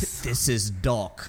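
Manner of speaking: slow, mock Kentucky drawl; Kentucky accent. Posing as someone else on the mic, slow Kentucky accent. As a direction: put on your best Kentucky accent, slowly. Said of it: "his best Kentucky accent".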